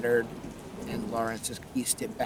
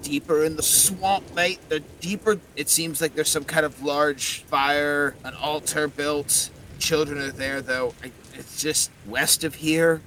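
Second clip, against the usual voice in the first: gruff Cockney skull; 3 semitones higher, 4 dB louder than usual. Acted. Winston's skull answers questions.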